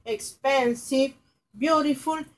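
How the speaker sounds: expensive drawn out slowly, syllable by syllable; teacher modelling expensive at half speed; slow model word. Shown as a demonstration. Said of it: "por ejemplo".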